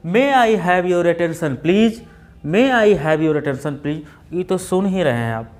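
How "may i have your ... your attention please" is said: slow, measured platform announcement; sweet station announcer. Retold or imitated. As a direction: imitate a sweet-voiced woman announcer, unhurried. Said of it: "बहुत मीठे से स्वर में बोलती है". (मीठे स्वर में धीमी उद्घोषणा)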